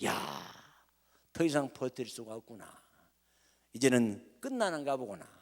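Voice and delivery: soft, low, lightly acted lament of a beaten man; mild despairing sigh. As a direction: let a hint of a defeated Luther sigh it out. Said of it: "탄식을 하고".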